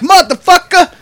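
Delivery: loud mock impression of a drunk old man; imitated drunk man. Coworker mimicking the man who stormed the office, loud impression. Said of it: "he was talking like that dude".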